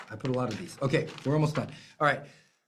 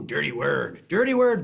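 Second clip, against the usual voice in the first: teasing; 5 semitones lower than usual. Real, not acted.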